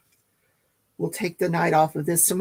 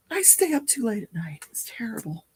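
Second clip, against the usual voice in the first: yawning; 4 semitones higher, 5 dB quieter than usual. Real, not acted. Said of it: "I'm yawning".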